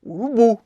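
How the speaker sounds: URUBU stressed on the closing BU; stress on final syllable. Shown as a demonstration. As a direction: lean on "bu" at the end of "urubu". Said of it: "Então é o bu". ("urubu" com a tônica no BU final)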